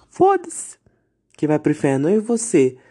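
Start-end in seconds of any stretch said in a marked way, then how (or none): 0.1-0.8 foda-se bem mais agudo e alto, num grito; foda-se gritado. Real, not acted. Desabafo contra homofóbicos. (grito agudo de desdém, muito mais alto)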